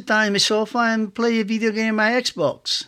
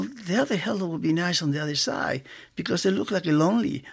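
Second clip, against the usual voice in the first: muttering to himself; 2 semitones lower, 7 dB quieter than usual. Retold or imitated. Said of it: "that's the way I talk".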